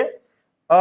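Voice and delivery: अ held long; drawn-out vowel. Shown as a demonstration. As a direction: stretch अ for three blinks. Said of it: "देर तक बोल सकते हैं". (अ को देर तक खींचना)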